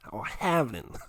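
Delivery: badly faked American accent on "halvening". Shown as a demonstration. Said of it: "I can't do it in American voice".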